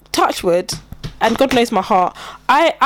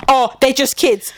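mock dismissive Karen; 2 semitones higher, slower than usual. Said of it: "can you believe she told me".

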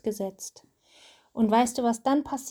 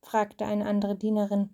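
steady storybook reading voice; reading to a child. A narrator's reading. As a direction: read the story aloud to your child. Mother reads Bible story aloud.

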